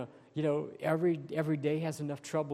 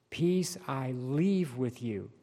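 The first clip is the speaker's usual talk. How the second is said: "leave" stretched out for emphasis; slowly, with weight on the word "leave"; stress on leave; slower than usual. Real, not acted. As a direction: underline "leave" with the voice. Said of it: "Underline that word leave".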